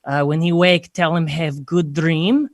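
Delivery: imitated Eastern European broken English; mock Eastern European woman relaying a message; Eastern European accent. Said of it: "her sister is, like, telling my best friend".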